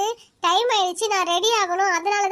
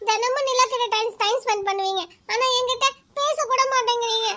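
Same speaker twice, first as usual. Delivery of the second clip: fake crying; 4 semitones higher than usual. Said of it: "நடிச்சு".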